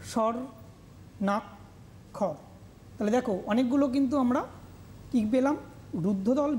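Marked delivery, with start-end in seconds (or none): 0.0-2.3 "স্বর্ণাক্ষর" very slow and much softer; slow soft syllable demo. Shown as a demonstration. Teacher to students, modelling "স্বর্ণাক্ষর" slowly and softly. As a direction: stretch "স্বর্ণাক্ষর" out gently, syllable by syllable. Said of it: "স্বর্ণাক্ষর যদি বলি".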